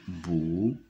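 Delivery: bou, blended slowly from B and O; détache la syllabe bou; sounding out the syllable. Shown as a demonstration. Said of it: "B avec O". (syllabe bou articulée)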